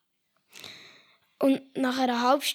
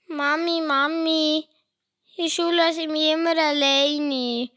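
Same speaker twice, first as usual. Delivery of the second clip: put-on a lightly raised whiny kid voice; child voice; 3 semitones higher than usual. Little boy complaining to his mother, lightly raised whiny voice.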